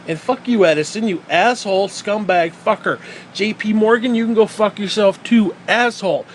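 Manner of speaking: heated, emphatic name-calling; angry cursing. Real, not acted. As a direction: spit insults at absent villains. Cursing out Edison and Morgan.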